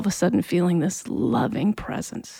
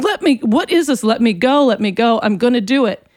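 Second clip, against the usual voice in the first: higher-pitched, urgent retold demand to be released; struggling protest; 3 semitones higher than usual. Teenager to the force holding her down, struggling protest. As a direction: act out fighting a restraint.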